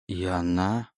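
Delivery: soft, hushed dread; whisper. Acted. Oleg realises the demon's trick, whispering softly. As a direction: barely breathe the question. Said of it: "прошептал он".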